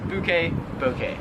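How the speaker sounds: first "bouquet" as boo-kay, second as bo-kay; contrasted pronunciations. Shown as a demonstration. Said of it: "they would pronounce it".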